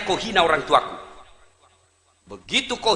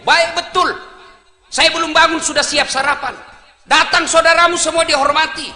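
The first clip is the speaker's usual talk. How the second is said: a mock angry mother, raised and loud, half laughing; mother scolding angrily; 5 semitones higher, 5 dB louder than usual. Mother berating son who wants a second wife, mock furious. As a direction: scold your son like a fierce mum, hammed up. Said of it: "Gitu mama saya kalau marah".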